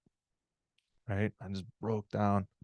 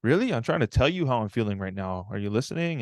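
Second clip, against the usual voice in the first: worked up. Retold or imitated. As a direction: act out mild exasperation at Dad. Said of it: "I'm just so worked up".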